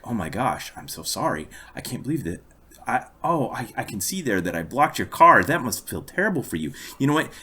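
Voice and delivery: gushing, apologetic and soothing; smooth her over with sorry after sorry; over-the-top apology. Retold or imitated. Driver apologizing to the British lady, gushing apology. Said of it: "complete sorry wave mode".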